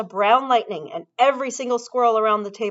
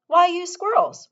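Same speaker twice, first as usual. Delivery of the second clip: Mike voice; 11 semitones higher, 6 dB louder than usual. A narrator's reading. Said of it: "Mike Teavee asked".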